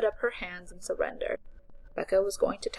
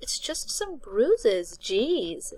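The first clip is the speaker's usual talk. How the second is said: hushed, slow brush-off; slow unvoiced dismissive whisper; 4 semitones higher, 3 dB louder, much slower than usual. A narrator's reading. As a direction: whisper it, shrugging it off. Becca brushing off bruises.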